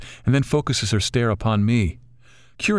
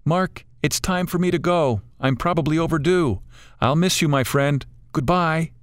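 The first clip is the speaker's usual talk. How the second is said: put-on wise old lady bird, higher voice, gently chiding; a kindly old bird coaxing them to enjoy it; 7 semitones higher than usual. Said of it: "the large bird circles and utters".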